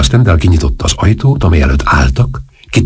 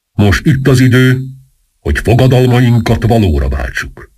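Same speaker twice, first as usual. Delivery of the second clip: solemn address in a raised pitch; hushed, solemn; 6 semitones higher than usual. A narrator's reading. Masked captain addressing sworn conspirators before the uprising, hushed and solemn. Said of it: "mondta végül is halkan és ünnepélyesen".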